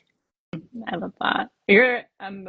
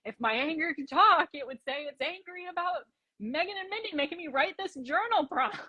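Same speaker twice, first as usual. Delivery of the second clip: grumpy inner voice; 10 semitones higher, 4 dB quieter than usual. Pretend. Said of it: "you might just be like".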